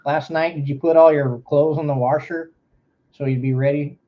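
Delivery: imitating a St. Louis local; St. Louis accent. Streamer mimics a St. Louis parent asking about laundry in a St. Louis accent. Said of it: "that's how they talked".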